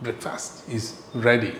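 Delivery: slow, drawn-out breakfast is ready; slow classroom repetition; very slow teaching model. Shown as a demonstration. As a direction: spell it out slowly for learners. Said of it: "അപ്പോൾ നമ്മൾ പറയുന്നു".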